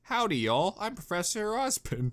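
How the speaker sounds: put-on lightly hinted Southern accent; a touch of Southern cowboy; southern drawl. Osbin introducing himself in a light Southern accent. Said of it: "a southern drawl".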